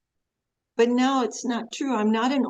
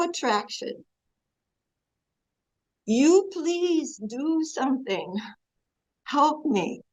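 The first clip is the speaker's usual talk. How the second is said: pleading prayer; 3 semitones higher than usual. Shown as a demonstration. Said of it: "we can approach the Lord in that circumstance".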